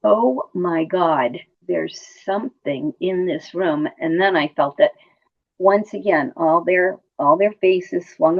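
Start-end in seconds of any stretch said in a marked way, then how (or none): 0.0-3.9 slow, hushed, spooked; slow awed fear. Retold or imitated. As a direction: realize something unseen is near. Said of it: "I said".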